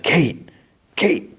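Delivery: retold anxious call. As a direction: call out as if across a distance, held back. Calling out to Kate in retold scene.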